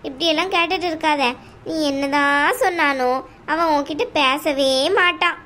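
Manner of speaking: a domineering aunt, coldly dismissive; mother-in-law telling the bride to leave the house, scornful. Acted. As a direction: lay down the law to the unwanted daughter-in-law. Aunt's voice continues.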